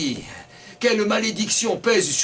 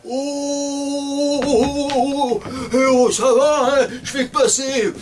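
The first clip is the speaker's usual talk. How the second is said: higher, loud quarrelsome man; quarrelling man; 9 semitones higher, 3 dB louder than usual. Acted. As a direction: yell back at the driver, higher and louder. Angry street quarrel with drivers.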